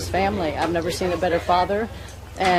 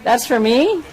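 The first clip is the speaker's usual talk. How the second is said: surprised; 4 semitones higher, 4 dB louder than usual. Real, not acted. Gets surprise gift on camera.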